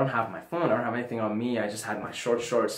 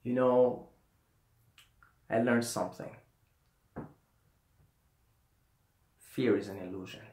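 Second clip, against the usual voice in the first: mumbled guru wisdom; 3 semitones lower, 6 dB quieter than usual. Retold or imitated. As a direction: mumble it like a stoned sage. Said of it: "say it in the way that I was".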